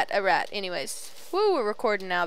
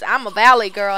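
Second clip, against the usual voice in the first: loud valley girl imitation; mock valley girl accent; 9 dB louder than usual. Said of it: "one of those".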